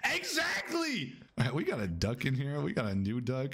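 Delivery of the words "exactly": slow, high stretched-out yell; drawn-out exclamation. Real, not acted. Streamer drawing out his agreement. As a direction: stretch every syllable.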